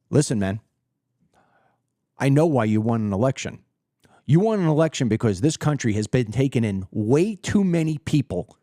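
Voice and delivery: low, stern talking-to; a hint of a stern president on the phone; tough phone call to the Mayor. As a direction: lay down the law to Mamdani, low and firm. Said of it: "Here's how that phone call with President Lynch works".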